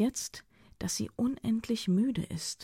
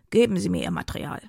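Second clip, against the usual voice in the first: fast, louder, thick-tongued demand; heavy dry tongue; 5 dB louder, faster than usual. Acted. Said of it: "mit schwerer, trockener Zunge".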